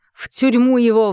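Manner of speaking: mild roar from a tyrant king; lightly voiced angry king shouting. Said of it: "взревел король".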